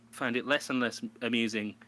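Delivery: normal talking voice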